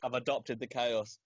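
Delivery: said again through a chuckle, clearer; repeated with a laugh. Real, not acted. Repeating himself to friend, laughing.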